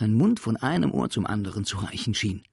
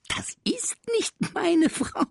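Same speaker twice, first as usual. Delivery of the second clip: whispered reply; 4 dB louder than usual. Acted. Sams answers.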